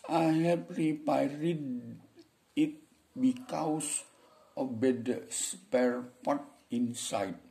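high, very slow broken English with long gaps; deliberately bad pronunciation. Shown as a demonstration. Beginner struggling through an English answer, halting high voice. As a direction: labour through it word by word, pitched high. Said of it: "Siapa yang mau larang begitu?".

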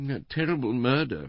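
high, plaintive invalid wife; Missus Bland, murmuring. A narrator's reading. Wife entering on talk of a murder, plaintive murmur. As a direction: lament it in a high, delicate voice. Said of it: "murmured Missus Bland".

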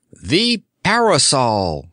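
slow, proud exclamation; a touch of triumph, slowly; triumphant cry. Acted. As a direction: announce the idea in triumph. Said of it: "cried the late Emperor".

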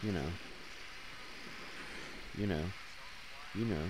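mock-annoying "you know" loop; annoying repeated filler. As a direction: deliberately repeat "you know" to get on nerves. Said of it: "I'll stop doing that now because it's maybe annoying".

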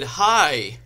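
loud, hammed-up hello; loud greeting. A narrator's reading. Heroine greeting Draco in the woods, loud greeting. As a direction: blurt the greeting out eagerly.

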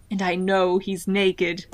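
slow, weighty mock-dramatic close; hammed-up slow reveal; dramatic reading. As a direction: draw it out for mock suspense. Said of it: "very dramatic".

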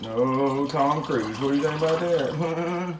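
a hint of a Tom Cruise voice, very slow start; lightly voiced movie-star impression. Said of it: "Oh, Tom Cruise, I think he can go a bit higher".

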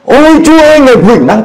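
high, ecstatic cry of praise; overwhelmed by power, crying out praise; shouting praise. Retold or imitated. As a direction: shout it out to God. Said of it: "Tôi bắt đầu la lên".

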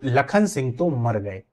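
slow, तो held apart from मर; word split in two. Shown as a demonstration. Teacher repeats the misreading, तो separated from मर. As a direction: break after तो, then say मर गए. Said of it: "तो और मर को अलग कर दिया जाए".

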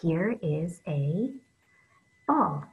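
slow, deliberate example sentence; slow model sentence. Shown as a demonstration. Teacher modelling a sentence for young readers, slow and clear. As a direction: say it slowly so kids can copy. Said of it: "I'm gonna use here in a sentence".

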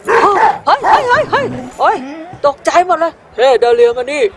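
sudden loud startled cries, high; scared shouting at a lunging dog; startled yelps. Acted. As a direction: jump back yelling at the dog.

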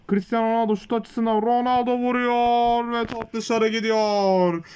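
steady match commentary voice; live play-by-play. Acted. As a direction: call the game like a TV commentator. Commentates his own match.

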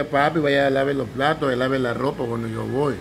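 an easy, friendly request about the dishes; nice request. Retold or imitated. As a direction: ask him nicely, like a loving wife. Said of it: "que diga".

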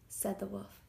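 ordinary delivery, nothing marked

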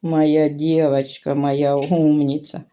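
slow, tender praise for the dog. Real, not acted. (повільно й ніжно хвалить собачку)

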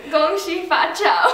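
put-on Mandarin words in a plain American accent. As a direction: say it in an American voice, not Chinese. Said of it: "You said it in American".

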